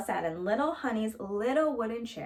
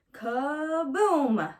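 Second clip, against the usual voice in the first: a sudden crash word; loud kaboom; 5 semitones higher, 5 dB louder than usual. A narrator's reading. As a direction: burst it out, loud and higher. Chair breaks under her.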